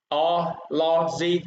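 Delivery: "o, lo, gi" as separate syllables. Shown as a demonstration. Teacher counts syllables for students, "o, lo, gi" separated. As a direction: sound out "o", "lo", "gi" one at a time. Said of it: "Các em đếm ở đây".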